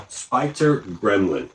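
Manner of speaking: "Spider Gremlin" said slowly, every syllable clear; slow down and nail "Spider Gremlin"; careful retry. Real, not acted. After stumbling, he slowly retries the name. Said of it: "I can't even talk".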